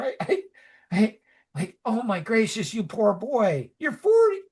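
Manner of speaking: fussing mom. Retold or imitated. Mom fussing over her forty-year-old son, high doting coo. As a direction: coo over him like a fretting mother.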